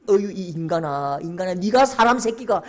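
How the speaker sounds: groaning self-reproach, building; bitter acted disgust at oneself; self-loathing lament. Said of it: "자기 가슴을 치고".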